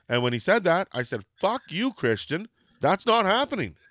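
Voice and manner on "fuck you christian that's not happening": mildly outraged retort at the radio; indignant, pitched up; retold anger. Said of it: "and I was so angry".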